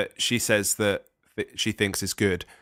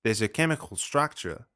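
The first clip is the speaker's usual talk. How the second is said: put-on Australian accent. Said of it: "you were indulging your Australian accent there".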